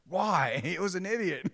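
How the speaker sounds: high, loud imitation of a kid; mock childish protest; protesting young son. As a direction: play the boy arguing back, half laughing. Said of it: "And so he's like".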